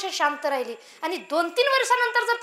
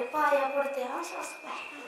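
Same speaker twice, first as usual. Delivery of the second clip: slow, hushed, deferential murmur; soft, demure acted voice; soft shy bride; 2 semitones lower, 6 dB quieter, slower than usual. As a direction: greet timidly as the new daughter-in-law. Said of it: "सासूबाईला म्हणते".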